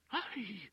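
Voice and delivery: high anguished cry of ay; scream. A narrator's reading. Wife dragged from the courtroom, screaming. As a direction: scream as she's dragged away. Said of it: "she screamed".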